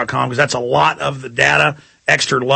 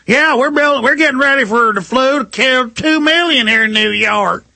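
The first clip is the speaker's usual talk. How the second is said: put-on higher-pitched, not-quite New York accent; mock New York accent; 7 semitones higher than usual. Official on the phone admitting flu preparations, in a mock New York accent. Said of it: "that's not really a New York accent".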